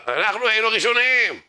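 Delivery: very high, insistent protest; high-pitched indignation; indignant protest. Acted. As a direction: stake the claim with mock outrage. Acts Coca-Cola side protesting priority.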